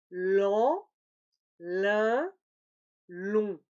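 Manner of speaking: Lent, lin, long, firm and loud nasal vowels; three nasals. Shown as a demonstration. Teacher pronouncing the nasal series. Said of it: "Je vais le prononcer maintenant".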